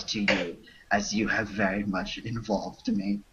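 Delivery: lightly put-on French accent reading broken English; a hint of a fake French accent, half laughing; bad French accent. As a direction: read the spam in a mock French accent, breaking into laughs. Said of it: "read this spam in a bad French accent".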